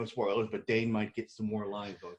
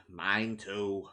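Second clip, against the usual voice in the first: lower, softer, weary "Mine too"; tired and quiet; 4 semitones lower, 6 dB quieter than usual. Acted. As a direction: sigh it out, worn down. Repeated after a sigh.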